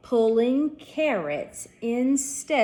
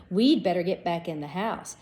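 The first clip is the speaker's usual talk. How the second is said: breathless; 2 semitones lower than usual. Acted. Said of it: "he exclaimed breathlessly".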